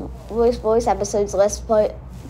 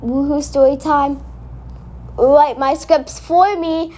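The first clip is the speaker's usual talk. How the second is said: catchphrase delivery; 3 semitones higher than usual. Shown as a demonstration. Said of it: "I'm going to say my famous catchphrase".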